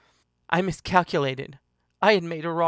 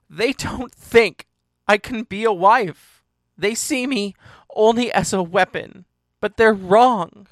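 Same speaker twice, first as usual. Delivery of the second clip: impassioned protest; 3 semitones higher, 7 dB louder than usual. Acted. She protests her family's view, loud and impassioned. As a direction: insist with rising force.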